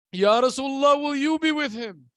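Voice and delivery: pleading mother's question, voice lifted on the first words; anguished plea. Retold or imitated. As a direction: plead in mourning, falling at the end.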